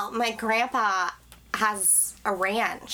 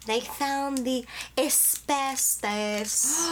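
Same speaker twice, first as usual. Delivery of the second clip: slow, drawn-out reveal; dramatic reveal; 3 semitones higher, much slower than usual. Acted. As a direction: draw it out for suspense.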